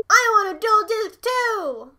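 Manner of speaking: put-on loud, drawn-out kid's demand; whining demand. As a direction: insist on joining in, loudly. Acted kid demanding to join.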